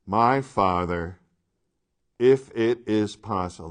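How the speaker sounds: slow, deliberate weight on each word; emphatic quoting. Acted. Preacher reading Jesus' prayer to students, slow and emphatic.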